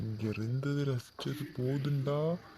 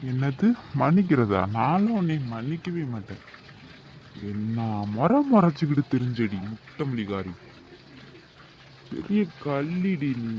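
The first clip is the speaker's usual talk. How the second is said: loud teasing; 6 dB louder than usual. Acted. Husband mock-scolds playfully.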